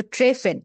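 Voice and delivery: "ট্রেফেন" with the R clearly sounded. Shown as a demonstration. Teacher sorting German R sounds for student, R sounded. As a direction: say "ট্রেফেন" with an audible consonant R. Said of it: "আর এর উচ্চারণটা আর মতোই হচ্ছে".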